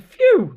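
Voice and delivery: high, loud relieved sigh of phew. Acted. Dog relieved after the danger, phew. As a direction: blow out in relief. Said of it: "said the dog".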